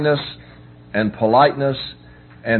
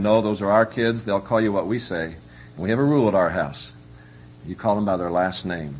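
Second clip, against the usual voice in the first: softer, gently firm refusal; kindly; 4 semitones lower, 4 dB quieter than usual. Retold or imitated. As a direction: say no to the church lady as kindly as you can. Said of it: "our answer is very kindly".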